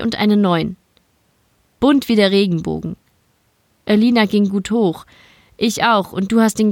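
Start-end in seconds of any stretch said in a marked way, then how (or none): none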